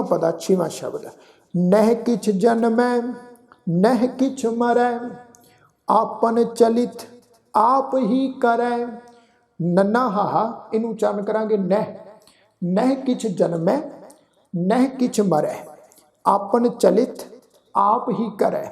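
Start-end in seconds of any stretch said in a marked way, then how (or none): 1.5-8.8 slow, drawn-out sacred recitation; scripture recitation. Acted. 12.6-18.6 measured, slow verse reading; scripture recitation. Acted.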